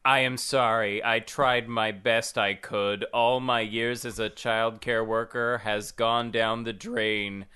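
lightly voiced nanny, slow apology; nanny's quote. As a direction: read her apology slowly, evenly. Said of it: "one of her famous quotes".

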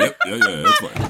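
very high squeaky voice; mock squeaky agreement. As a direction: squeak it like a cartoon.

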